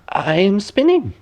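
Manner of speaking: lightly voiced old woman at her spindle. Old woman answers princess.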